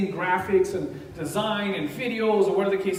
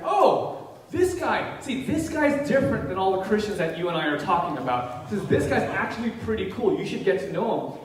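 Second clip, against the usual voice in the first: excited praise. Retold or imitated. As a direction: imitate an impressed friend. Retells the atheist praising him.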